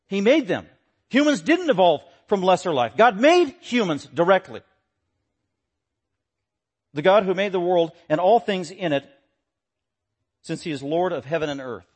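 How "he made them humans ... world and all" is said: raised, louder emphatic preaching; forceful preaching. Acted. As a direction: drive each point home to the congregation.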